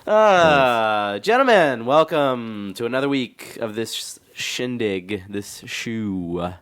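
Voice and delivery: booming hammed-up show host opening; grand welcome to the podcast crowd; mock host intro. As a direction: announce it like a cheesy emcee.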